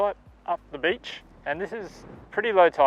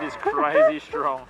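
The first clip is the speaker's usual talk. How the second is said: raised voice, high and slow over wind; shouting over wind; 5 dB louder, much slower than usual. Real, not acted. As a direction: call out over a gale. Filming on a very windy beach.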